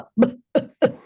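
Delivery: short b burst breaking off; a sound that starts and can't be maintained; unsustained sound. Shown as a demonstration. Showing parents a child's unmaintained sound, broken bursts. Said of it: "Sometimes the sounds are so".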